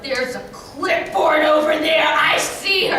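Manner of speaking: imitating an angry mom yelling; mock shout. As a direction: call out like a mob that found its target. Angry moms spot her.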